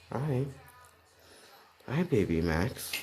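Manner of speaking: soft, lilting hello to a pet; pet greeting. Real, not acted. Narrator breaks off to greet baby Max, soft and lilting. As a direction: greet the pet softly, starting high.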